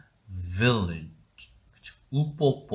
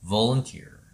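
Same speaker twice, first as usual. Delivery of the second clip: British volunteer; much slower than usual. Shown as a demonstration. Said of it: "영국식은".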